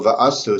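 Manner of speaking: va'asu with the accent pulled forward onto VA; stress on first syllable. Shown as a demonstration. Explaining the accent shift in va'asu, stress on VA. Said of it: "emphasis here on the first syllable".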